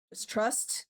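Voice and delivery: breathy whisper. Real, not acted. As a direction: whisper it like a plea. Whispered plea to chat.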